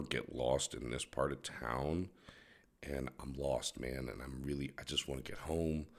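put-on soft, timid lost-kid plea to the cop; mock-meek voice put on for a cop. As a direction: play lost and scared, all innocent. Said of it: "that's my cop voice".

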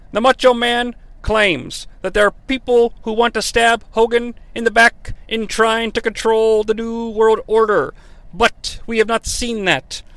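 hint of an old wrestling commentator calling the action; Tony Schiavone impression. Quoting the wrestling commentator Tony Schiavone with a light announcer voice. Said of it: "I will now quote Tony Schiavone".

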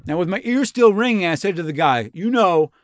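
lightly voiced bro jock, breathless and hyped; a hint of a dude-bro athlete retelling a wild story; Rob Gronkowski. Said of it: "The voice of the narrator for me in my head, though, is the professional football player and part-time wrestler, Rob Gronkowski".

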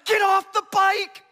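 loud, high, slow shouted order; retold yell. Straddling the front wheel, yelling up at Chris, loud and high. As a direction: bark it at him with all you've got. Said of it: "and I'm yelling".

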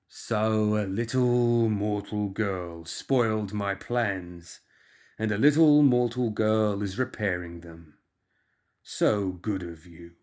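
slow, sneering plague lord voice; lightly voiced creeping menace, unhurried; slow undead tyrant. Undead tyrant speaks to girl.

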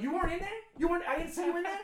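high, loud disbelieving challenge; confronting the kid outside, a mock-mobster shout of disbelief; Goodfellas tough guy. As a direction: get in his face like a mob heavy. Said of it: "my Goodfellas moment".

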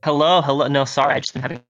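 glitchy robotic phone line; choppy robot voice on a bad connection. Real, not acted. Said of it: "you're kinda getting that robot voice".

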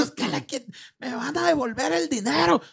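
high, shrill mother demanding money back; angry mother complaining. Retold or imitated. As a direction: play an outraged mom at the counter. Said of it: "que llegó a hacerla de pedo".

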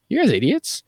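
rally them with mock passion; a hammed-up impassioned plea; impassioned speech. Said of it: "he gives this whole impassioned speech".

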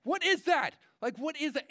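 exasperated preacher's question; incredulous cry. Real, not acted. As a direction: throw the question at the room in disbelief.

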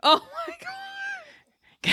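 very high, long-stretched squeal; mock Valley Girl. Mocking the failed Valley Girl.

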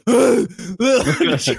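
high strained mock groan; imitated exertion groan. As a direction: act out struggling through burpees. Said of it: "having to do burpees, like".

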